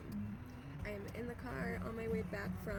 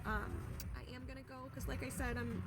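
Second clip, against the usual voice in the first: drowsy and groggy after anesthesia. Real, not acted. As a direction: talk a little groggy, sleepy after sedation. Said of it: "still a little groggy from the anesthesia".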